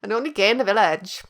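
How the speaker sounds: put-on half-hearted Welsh accent; bad Welsh accent. Joking about the village's only gay, bad Welsh accent. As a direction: try a Welsh catchphrase voice, not quite landing. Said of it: "still can't do a Welsh accent".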